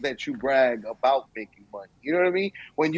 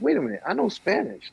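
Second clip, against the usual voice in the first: excited; 7 semitones higher than usual. Retold or imitated. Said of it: "I was like".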